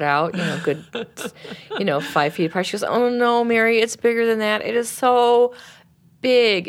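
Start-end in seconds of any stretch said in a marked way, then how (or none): 2.8-6.7 higher, insistent acted protest; emphatic protest. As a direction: act out her insisting, with rising force. Woman insists anger is huge.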